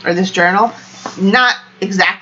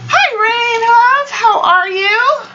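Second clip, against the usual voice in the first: high excited greeting; 3 dB louder, slower than usual. Real, not acted. Greeting a viewer in live chat.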